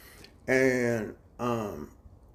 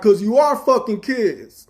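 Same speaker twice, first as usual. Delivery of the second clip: high, loud, slow emphatic yell; slow angry shout; 8 semitones higher, 9 dB louder, slower than usual. Retold or imitated. Telling the chief off, slow furious shout. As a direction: hammer every word home at him.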